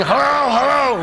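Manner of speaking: high voice tryout; testing your voice. Retold or imitated. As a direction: search for an awake sound. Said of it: "Do you ever test your voice".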